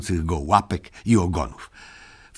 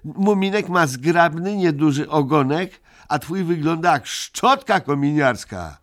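shouted; 8 semitones higher than usual. A narrator's reading. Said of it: "krzyknął Migotek".

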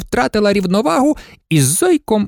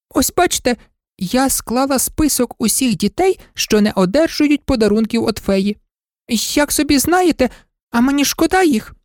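much higher, chatty maid voice; chattering old maid; 6 semitones higher than usual. Acted. Maid explains her list to the Indian, high. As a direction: prattle on eagerly.

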